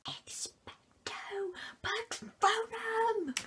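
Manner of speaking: drawn-out spell, kept hushed. Acted. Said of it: "that would have been shouted really loudly".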